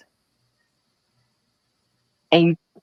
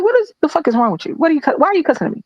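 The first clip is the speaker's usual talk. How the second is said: fast, higher, indignant comeback; retold outraged retort; 6 semitones higher, faster than usual. To the manager cussing her out, a fast indignant retort. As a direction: snap back at the cussing boss, sped up. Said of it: "I was like".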